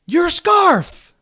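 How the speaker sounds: high, loud sudden outburst; panicked blurt. Retold or imitated. Blurting in panic before Stan.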